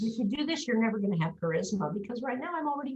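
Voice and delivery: collapsed-posture voice. Shown as a demonstration. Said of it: "notice what's happening to my voice".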